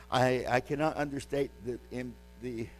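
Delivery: short of breath, straining; running out of air mid-phrase. Real, not acted. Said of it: "I'm short of breath today".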